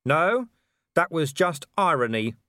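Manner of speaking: shouting. A narrator's reading. Vimes shouting a dry retort at Wolfgang, loud. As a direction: snap the joke back down. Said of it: "Vimes shouted".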